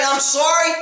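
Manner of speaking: sorry thrown back with disbelief; mock the weak apology in disbelief; incredulous mock sorry. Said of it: "and you're gonna say".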